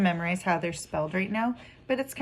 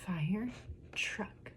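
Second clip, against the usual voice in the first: soft "Fire", pause, softer "truck"; syllable by syllable; 10 dB quieter than usual. Shown as a demonstration. Teacher letting children hear the syllables, softly split. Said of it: "So let's hear it".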